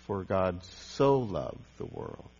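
"so" stressed, slow and soft. Shown as a demonstration. Preacher showing another emphasis, stress on so. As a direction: draw out the word "so".

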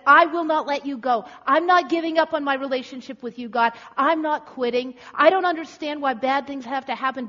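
loud, insistent declaration to God; determined vow. Acted. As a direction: refuse to let go, pleading with force. Acts Jacob wrestling, refusing to quit.

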